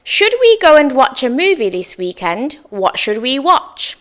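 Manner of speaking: inviting question, starting high; suggestive tone. Shown as a demonstration. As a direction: propose it as an open suggestion. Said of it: "suggestive tone".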